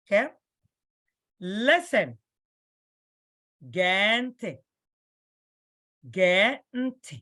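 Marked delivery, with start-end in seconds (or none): 3.7-4.5 "Gee ntị" with "Gee" drawn out; long vowel. Shown as a demonstration. Teacher showing learners the long E, long vowel in "Gee". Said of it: "Gee is a long vowel". 6.1-7.2 "Gee" held long, then "ntị"; long vowel. Shown as a demonstration. Teacher showing learners how to say listen, long vowel in "Gee". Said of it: "Gee is a long vowel".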